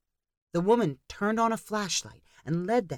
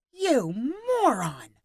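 furious scream; 8 semitones higher, slower than usual. A narrator's reading. Danny screaming at Marcus, furious. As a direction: spit the insult at him. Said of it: "Danny screamed at Marcus".

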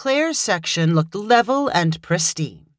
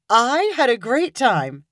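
reassuring; 5 semitones higher, slower than usual. A narrator's reading. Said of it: "she assured him".

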